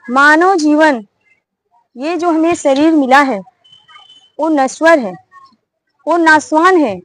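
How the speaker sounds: a wise bird teaching the hunter about life; hint of a wise bird's sermon; preaching bird.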